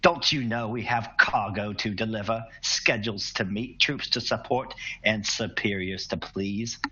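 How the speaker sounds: annoyed rebuke to a subordinate; perturbed captain. Acted. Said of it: "obviously perturbed".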